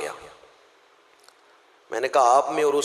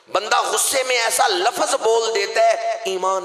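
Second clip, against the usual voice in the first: fervent preaching; 10 semitones higher, 4 dB louder than usual. Acted. Raised preaching warning.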